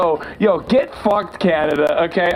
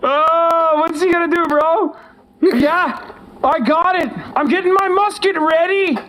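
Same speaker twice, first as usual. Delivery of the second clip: higher-pitched hammed-up frontier boaster; mock Canadian gunman; 6 semitones higher than usual. Pretend Canadian bragging about his musket, hammed-up and high. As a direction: puff up like an old-timey musket owner.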